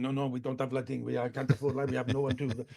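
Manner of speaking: quick French promoter impression, slightly low; imitated French accent. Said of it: "French guy's going".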